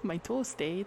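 put-on lightly done Canadian accent; casual mock Canadian. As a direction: try a Canadian accent, tagged with an "eh". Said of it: "That's kinda Canada".

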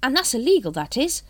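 happy. A narrator's reading. Carrot telling Vimes it is illegal, happy. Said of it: "said Carrot happily".

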